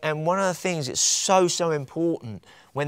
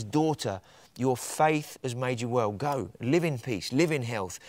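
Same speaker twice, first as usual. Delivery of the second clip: soft, unhurried reassurance; quiet, fatherly tenderness; tender blessing; 3 semitones lower, 5 dB quieter than usual. Acted. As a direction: send her off gently with a blessing. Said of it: "I love the way he says that".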